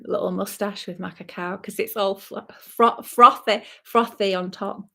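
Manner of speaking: drinking between words; sipping hot tea. Real, not acted. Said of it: "Sorry, I'm slurping as well".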